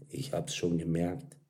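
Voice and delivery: soft, subdued reply; quiet acknowledgement. A narrator's reading. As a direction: answer gently and low-key. Martin answers her soft confession.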